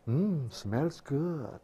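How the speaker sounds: slow, savouring Jesus tasting the food. Acted. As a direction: draw out the smell like a pleased guest. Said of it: "and Jesus says".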